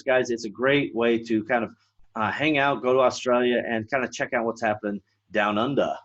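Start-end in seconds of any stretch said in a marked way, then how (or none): 5.3-5.9 playful mock Australian accent; a little put-on Australian twang. Shown as a demonstration. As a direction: drop into a light Aussie accent. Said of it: "That's a little Australian accent".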